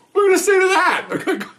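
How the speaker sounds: asked through a real laugh; cracking up as he asks it. Real, not acted. Retired cop laughing at his court story, high and laughing.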